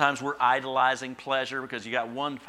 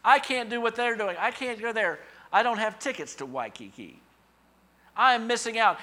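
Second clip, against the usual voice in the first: high, loud whining self-pity; hammed-up complaining voice, much higher and louder; mock whine; 10 semitones higher, 8 dB louder than usual. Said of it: "drop it in our thinking".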